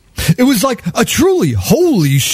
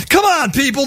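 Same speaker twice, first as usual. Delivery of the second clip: yelling out; 5 semitones higher than usual. Retold or imitated. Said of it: "this guy's yelling out".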